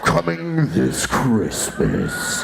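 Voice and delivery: slow trailer-announcer read; movie trailer voice. Pretend. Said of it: "a movie trailer voice guy".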